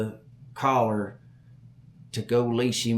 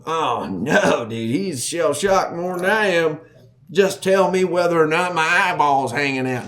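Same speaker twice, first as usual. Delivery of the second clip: loud, raised, insistent plea; re-enacted frantic exasperation; exasperated urgency; 5 semitones higher, 6 dB louder than usual. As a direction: press a dazed friend for an answer. Re-enacts pleading with shocked buddy.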